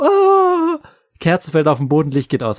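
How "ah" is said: mock shriek, much higher and louder; a short startled shriek; mother's scream. Mother shrieks as the door bangs shut, mock shriek. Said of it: "Und sie".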